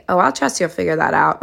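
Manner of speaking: sassy mock agreement with attitude. Shown as a demonstration. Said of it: "you don't wanna say it sassy".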